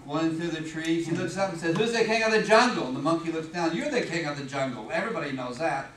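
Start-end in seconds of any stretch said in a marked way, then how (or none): 1.8-2.9 loud, boastful demand as a cocky lion. Acted. Lion challenging the giraffe, boastful and loud. 3.8-5.9 low-voiced, mildly submissive reply; submissive giraffe. Giraffe answering the boastful lion, low and submissive.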